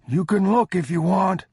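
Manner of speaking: a beggar cowering, afraid of being robbed; terrified old stranger begs travelers, high and loud; frightened old man. Acted.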